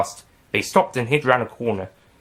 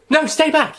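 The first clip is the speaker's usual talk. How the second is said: high, loud warning yell; 5 dB louder than usual. Acted. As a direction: shout them back. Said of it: "yelled Rosemary".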